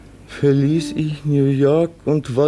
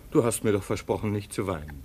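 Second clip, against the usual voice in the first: softer, fast then fading low; gentle chiding; 4 semitones lower, 6 dB quieter, faster than usual. Acted. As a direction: tease her tenderly out of tears. Son gently chides crying mother. (sanft tadelnd)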